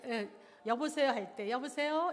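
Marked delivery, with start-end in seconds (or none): 0.6-1.1 higher, much louder phone hello on a sol pitch. Shown as a demonstration. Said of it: "한번 소울 톤 한번 해보세요". 1.5-2.1 high, loud phone greeting with a rising end. Shown as a demonstration. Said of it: "소울 톤으로 하시면은".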